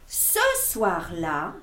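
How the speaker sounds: slow, hushed storytelling; story narration. A narrator's reading. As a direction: draw the children into the magic. Lecture d'album aux enfants. (narration lente et mystérieuse)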